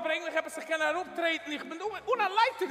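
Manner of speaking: words broken by laughter; laughing. Real, not acted. Talking through laughter to his friend.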